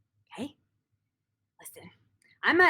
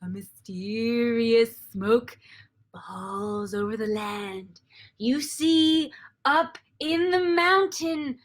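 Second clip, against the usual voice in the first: slow, drawn-out ominous narration; game master scene setting; much slower than usual. Acted. Dungeon master sets the mysterious mountain scene, slow suspenseful narration. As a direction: draw out each word with suspense.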